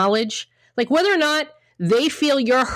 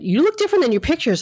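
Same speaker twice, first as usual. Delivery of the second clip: higher, fast, offhand voice of a dismissive date; date's remark; 6 semitones higher, faster than usual. Retold or imitated. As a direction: toss it out carelessly like a rude date. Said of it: "the guy said".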